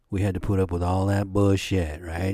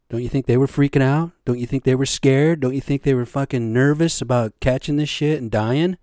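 loud building rhetorical questions; 3 semitones higher, 5 dB louder than usual. Real, not acted. Rant about natives' fear.

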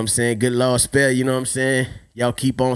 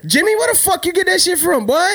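hammed-up parent yelling at his son; scolding parent. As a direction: call the kid out like an angry father. Parent confronting kid in skit.

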